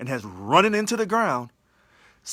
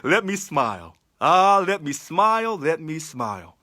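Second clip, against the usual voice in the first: smiling; 3 dB louder than usual. Real, not acted. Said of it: "again with a smile".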